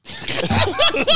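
high, breathy shivering sounds; freezing-to-death impersonation. Acted. Mocking an actor falling into the ocean, freezing impersonation. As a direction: imitate someone freezing in the sea.

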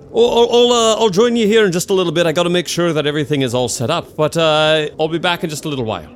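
high, loud, flustered host; flustered innkeeper. Acted. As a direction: rush it out like a busy host.

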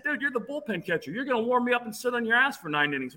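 high-pitched, incredulous reasoning; mock exasperated. Pitcher to nervous bullpen catcher, mock exasperated. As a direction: retell a teasing reality check.

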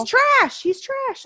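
shouted high and loud; loud disgusted outburst; angry outburst. Real, not acted. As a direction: spit it out in a burst of disgust. Ranting about the manager.

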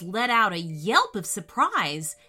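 gentle bedtime story voice; storytelling narration. A narrator's reading. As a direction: read it like a children's story. Reads story to children.

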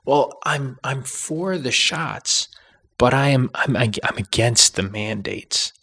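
high, slow mocking voice for the mandate opponent; mocking a fence-sitter. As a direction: parody someone who is for the shots but against mandates. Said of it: "the pet peeve says".

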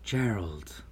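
airy, half-whispered greeting; hushed, gentle welcome; gentle fairy mother. A narrator's reading. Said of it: "Selena spoke gently".

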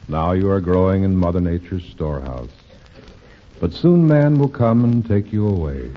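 lightly voiced solemn nature spirit; voice in the wind. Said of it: "heard a voice in the whispering wind".

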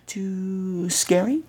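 announcer. Pretend. Spooky intro to old radio show.

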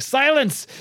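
high, hammed-up villain outburst; mock-furious order; imperious command. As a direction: cut them off like an evil master. Rasputin cuts off pleading minions.

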